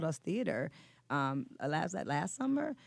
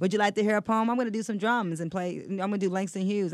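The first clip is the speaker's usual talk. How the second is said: put-on cheerful kid emcee; 4 semitones higher, 5 dB louder than usual. Son imitating his younger stage self.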